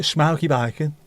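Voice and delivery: broad Brummie vowels; Brummie accent. Shown as a demonstration. Crisp fan listing flavours again in a Brummie accent. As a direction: put on a Birmingham accent. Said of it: "said in a Brummie accent".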